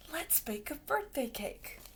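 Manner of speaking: hushed whisper. A narrator's reading. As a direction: whisper so Mama stays asleep. Tiptoe past sleeping Mama.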